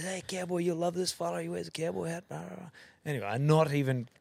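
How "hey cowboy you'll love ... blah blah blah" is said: imitated eager friend. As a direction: act out a fan hyping up his mate in a raised pitch. Excited fan friend quoted over song.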